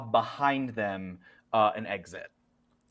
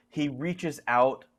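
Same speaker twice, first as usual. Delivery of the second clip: ordinary delivery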